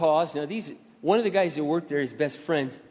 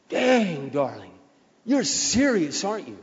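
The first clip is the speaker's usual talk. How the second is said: imitating a stunned coworker; be taken aback, half amused; mock amazement; slower than usual. Stunned coworker reacts to the outburst.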